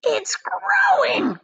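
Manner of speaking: high, slow, breathless cry; excited cry. Acted. Aunt Spiker seeing the peach grow, high and breathless. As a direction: gasp it out in amazement. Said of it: "Aunt Spiker cried".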